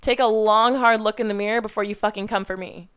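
pissed off. Real, not acted. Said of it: "Man, I sound so fucking pissed".

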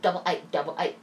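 "double A" as "double eye-t"; sharp British A. Retold or imitated. Showing what threw her in London, "A" sharpened towards "eight" or "eye". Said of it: "such a sharp A".

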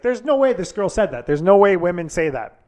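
no way, he can't believe it; retold stunned disbelief; disbelieving. Incredulous retelling of own reaction.

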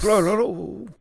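imitated chitter. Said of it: "tried to channel my infernal accent".

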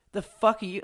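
flat deadpan stare voice. Retold or imitated. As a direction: say it dead flat. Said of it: "I looked at him deadpan".

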